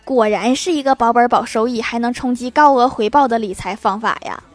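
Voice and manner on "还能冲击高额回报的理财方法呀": mocking laugh. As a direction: laughingly parody the sales pitch on 高. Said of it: "mocking echo of the pitch". (笑着调侃"高额回报")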